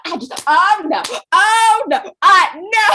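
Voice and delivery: high, loud mock panic, oh no; a hammed-up all-caps wail; weird panicky voice. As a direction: imitate a friend's over-the-top meltdown. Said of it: "she goes into this weird voice".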